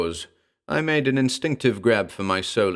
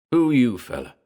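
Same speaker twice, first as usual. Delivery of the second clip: demanding ape; 4 semitones higher, 4 dB louder than usual. A narrator's reading. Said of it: "the ape demanded".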